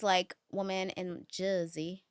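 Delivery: put-on slow Jersey accent drawl on Jersey. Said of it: "you're doing a Jersey accent".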